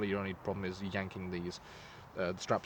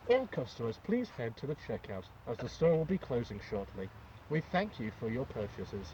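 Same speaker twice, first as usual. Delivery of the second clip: store announcer; 3 dB quieter than usual. Pretend. Mock shop tannoy announcement.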